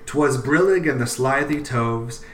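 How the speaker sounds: measured poem reading. Shown as a demonstration. Reads Jabberwocky's first stanza aloud, poem reading. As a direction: read it like verse, keep the rhythm. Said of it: "I'll just read the first stanza".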